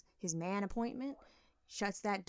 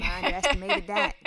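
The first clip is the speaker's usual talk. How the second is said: mock surprise; 6 semitones higher, 8 dB louder than usual. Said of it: "And we like".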